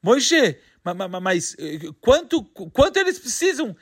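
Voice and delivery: stammering in shock, tripping over ma-. Acted. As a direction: stutter the words out, stunned. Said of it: "o F começa a gaguejar". (gaguejando de espanto)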